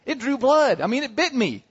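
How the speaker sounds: aggrieved storyteller's high-pitched complaint; indignant. Real, not acted. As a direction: protest the injury, voice rising high. Indignant retelling of dog bite.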